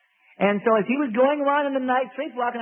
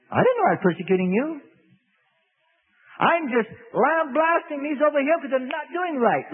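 indignant Saul; 6 semitones higher than usual. Acted. Saul answers, higher, indignant.

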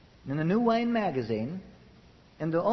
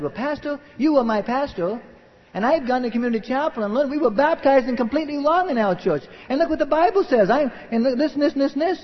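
lightly voiced parishioner, pitched higher; earnest church member; 7 semitones higher, 3 dB louder than usual. Church member showing his pastor the Bible, mildly insistent. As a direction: plead the case in a raised pitch, piling up proofs.

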